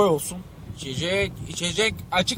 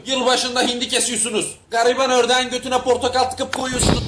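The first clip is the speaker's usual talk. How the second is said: high-pitched heated accusation; indignant rant; 5 semitones higher than usual. Acted. Man rebuking critics of the sacrifice holiday, indignant rant. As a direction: throw the accusation back at them.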